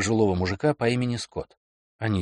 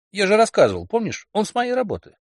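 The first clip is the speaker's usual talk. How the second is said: put-on higher, pushy young man; eager boyfriend voice; 10 semitones higher, 6 dB louder than usual. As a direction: insist brightly, a bit defensive. Kelly voiced higher than narrator.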